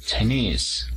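Chinese with nese lifted; stress on the second syllable. Shown as a demonstration. Teacher models the nationality, stress on nese. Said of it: "Levantamos la voz en la segunda".

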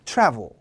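"travel" with a firm, wide first vowel; forceful spread vowel. Shown as a demonstration. Teacher leading the class together, "travel" with a forceful wide vowel. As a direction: push hard on the "a" of "travel", falling off after. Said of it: "좀 힘을 주세요".

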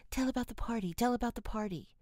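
put-on high, eager children's call; eager cry. A narrator's reading. Little sisters to Meg and Jo at bedtime, eager high cry. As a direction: bounce up calling for the story. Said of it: "two sleepy but eager voices cried out".

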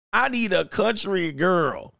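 laughing. Real, not acted. Repeated through laughter.

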